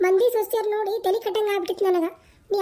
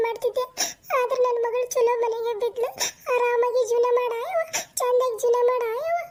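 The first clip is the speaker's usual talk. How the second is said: half-crying with relief, voice lifted; mother weeping at her daughter's wedding, tearful; 3 semitones higher than usual. Acted. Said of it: "ಯಾಕ್ ಅಳ್ತೀರಿ?".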